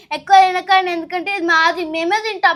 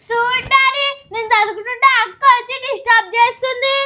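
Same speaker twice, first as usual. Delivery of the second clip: higher, fast complaining to dad; whiny tattling child; 3 semitones higher, faster than usual. Acted. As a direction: tell on big sister. (నాన్నకు ఫిర్యాదు చేసే చిన్నపిల్ల గొంతు)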